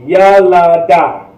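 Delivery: slow, careful "Yelada"; teacher slowing "Yelada" down. Shown as a demonstration. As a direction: stretch "Yelada" out for practice. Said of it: "slow it down sometimes".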